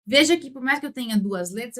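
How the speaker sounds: usual speaking voice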